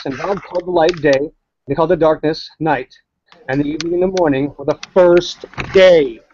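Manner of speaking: solemn, measured Bible reading; scripture reading. Acted. Reading Genesis aloud to atheist listeners, measured solemn scripture voice. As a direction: read Genesis like a lectern reading.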